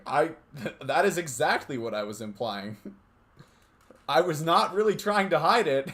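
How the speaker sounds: laughing through the words. Real, not acted. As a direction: giggle while admitting it. Laughing while admitting.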